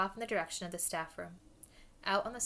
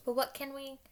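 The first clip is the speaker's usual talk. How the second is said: higher, question broken off in surprise; gasped; 7 semitones higher than usual. A narrator's reading. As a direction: break off as if startled. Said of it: "Hermione gasped".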